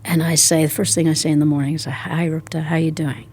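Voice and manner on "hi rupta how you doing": soft unvoiced hello to herself; whispered greeting. Shown as a demonstration. Greeting her own body first thing in the morning, whispered. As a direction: whisper it gently inward.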